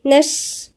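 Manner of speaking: نش with an airy, breathy shin; tajweed demo of نش; whispered shin. Shown as a demonstration. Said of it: "الشين هنا فيه همس".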